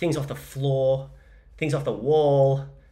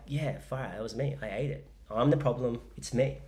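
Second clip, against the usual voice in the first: a pop singer's style; 5 dB quieter than usual. Retold or imitated. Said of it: "a pop singer's style".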